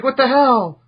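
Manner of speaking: mock indignant.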